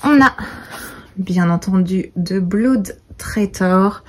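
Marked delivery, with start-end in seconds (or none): 2.2-4.0 slow, careful English accent on the title. Shown as a demonstration. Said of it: "avec mon accent splendide". (titre dit lentement avec l'accent anglais)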